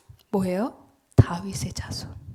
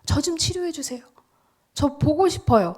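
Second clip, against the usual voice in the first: ordinary plea; 4 semitones higher than usual. Retold or imitated. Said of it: "보통은 이렇게 했겠죠".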